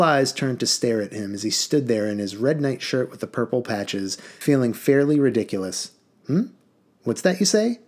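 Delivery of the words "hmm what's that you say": irritable demand. Acted. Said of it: "Prince Bolo irritably demanded".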